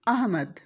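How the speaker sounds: अहमद said as a-h-mad, zabar on alif; correct Ahmad. Shown as a demonstration. Teacher demonstrating the correct अहमद, slow and careful. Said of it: "इसी सही तलफ़ुज़ के साथ अलिफ के ऊपर ज़बर है".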